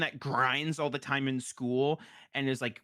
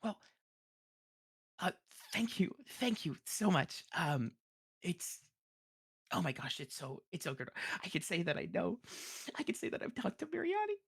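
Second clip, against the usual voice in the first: gushing scribe; 4 semitones higher, 7 dB quieter than usual. Acted. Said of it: "as she goes".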